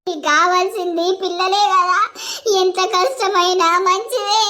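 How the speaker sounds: wailing, tearful begging; wife weeping and begging him to leave the other woman; sobbing plea. Acted. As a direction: cry out your plea, half-sung in grief. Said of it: "నువ్వు ఇట్లా ఏడుతున్నావు".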